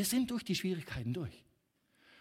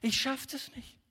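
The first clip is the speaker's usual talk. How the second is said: retold despair; 5 semitones higher than usual. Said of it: "Ich sag".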